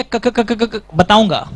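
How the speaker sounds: stuttering on क over and over; mock stammer. Teacher faking a student stuck on the word, mock stammer. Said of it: "घटिया acting".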